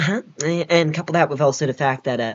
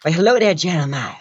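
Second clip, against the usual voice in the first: changed voice; 4 dB louder than usual. Shown as a demonstration. Demonstrating voice changes to a friend, bright hello. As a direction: jump the hello up, settle back. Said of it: "third time I had manipulated my voice".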